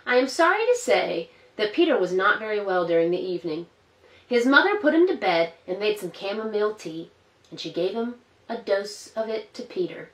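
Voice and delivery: gentle storybook narration for little ones; reading to children. A narrator's reading. Storyteller reading Peter Rabbit to children, gently. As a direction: read it like a bedtime story.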